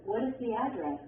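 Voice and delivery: WH question falling on "address"; falling intonation. Shown as a demonstration. Textbook example of a WH question, falling intonation. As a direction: let the question go down at the end of "address". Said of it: "arrows that show falling intonation".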